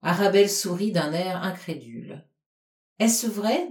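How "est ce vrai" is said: jealous coquetry. Acted. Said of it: "avec un accent de coquetterie jalouse".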